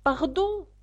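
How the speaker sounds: high-pitched, meek apology; humble. A narrator's reading. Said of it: "dit Alice humblement". (excuse humble, voix aiguë)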